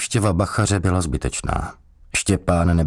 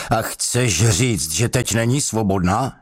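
raised-pitch questioning; 5 semitones higher than usual. A narrator's reading. Interrogator questions a prisoner about freedom, voice jumping higher. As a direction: voice jumps higher, drawn-out start. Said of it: "Hluboký hlas poskočil o tři tóny výš".

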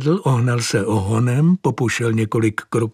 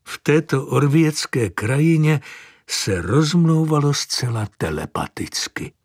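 plain reading voice

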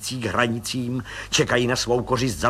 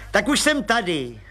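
a high, eager little man's voice; high chirpy little agent; Pištora voice; 9 semitones higher than usual. Acted. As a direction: pipe it up like a cheerful small policeman. Pištora arrives.

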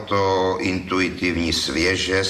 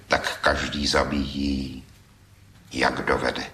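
recited with feeling; 4 semitones lower than usual. Acted. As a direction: recite the ballad line movingly. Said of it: "s takovým citem".

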